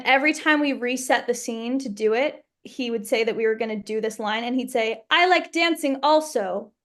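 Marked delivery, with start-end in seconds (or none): 5.1-6.7 put-on French accent. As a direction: quote him in a light French accent. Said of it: "in his French accent".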